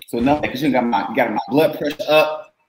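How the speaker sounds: riled up after a passionate rant; fired up. Real, not acted. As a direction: let the blood pressure show. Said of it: "I'm hot now".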